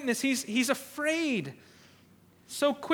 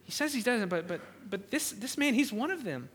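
aside to bystanders; 6 dB quieter than usual. Acted. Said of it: "now she starts talking to others".

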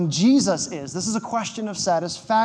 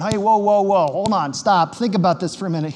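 mock speed bump. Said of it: "like a verbal speed bump".

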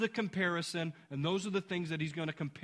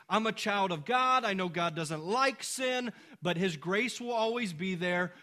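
a lightly voiced careless believer, a little louder; imagined objector; 4 dB louder than usual. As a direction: play the smug excuse-maker lightly. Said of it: "Someone may reason".

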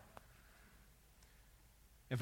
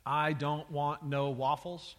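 slow, put-on voice for "I don't want no waffles"; drawn-out example voice for "I don't want no waffles"; mock double negative; slower than usual. Shown as a demonstration. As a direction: play a dim speaker, dragging out "I don't want no waffles". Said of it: "if you use a double negative".

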